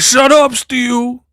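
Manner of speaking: high-pitched imitation of telling someone off; mock exasperated rebuke. Silencing Steele as he cries, high mock exasperation. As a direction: shoot up high to hush a crybaby. Acted rebuke of crying friend.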